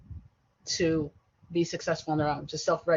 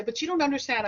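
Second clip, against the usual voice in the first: higher-pitched imitation of a kid protesting; complaining kid; 8 semitones higher than usual. Teacher imitating her kids protesting to her, mock complaint. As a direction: mimic a student's plea. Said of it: "when my kids say".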